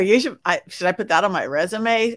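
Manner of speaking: ordinary talk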